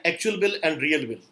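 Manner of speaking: slow, with "bill" stressed in both "actual bill" and "real bill"; slow contrast. Shown as a demonstration. Teacher to students, showing the wordplay slowly. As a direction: set "actual bill" against "real bill" slowly, leaning on each "bill". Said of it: "थोड़ा words के साथ play है".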